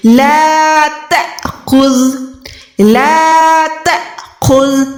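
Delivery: ला तअखुज़ slow with a clipped stop on the alif; jerked alif. Shown as a demonstration. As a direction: cut the alif sharply in तअखुज़. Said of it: "अलिफ को झटका लगाना है". (अलिफ पर झटका)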